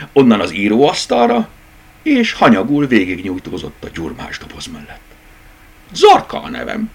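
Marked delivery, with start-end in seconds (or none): 5.9-6.9 much higher, airy and casual; tossed-off lightly. A narrator's reading. Rabbit tosses her name at the toys, airy. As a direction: drop the name carelessly. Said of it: "vetette oda könnyedén".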